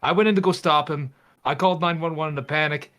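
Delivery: nervous guy explaining fast. Acted. Player voices Ethan in character.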